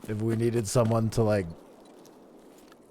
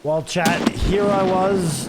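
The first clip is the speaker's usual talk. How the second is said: dramatic narrator voice; 9 semitones higher, 10 dB louder, slower than usual. Pretend.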